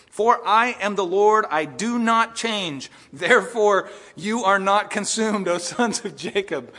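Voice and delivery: slow, loud, deliberate God voice; slow weighty reading. Acted. Preacher reading God's words to the congregation, slow and weighty. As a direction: lean on each word like the Lord speaking. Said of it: "look carefully here".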